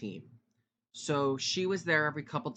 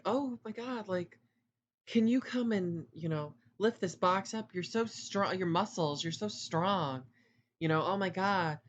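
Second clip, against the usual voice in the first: mock flirty coworker; 4 semitones higher than usual. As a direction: tease him like a flirt asking a favour. Coworker's flirty request retold.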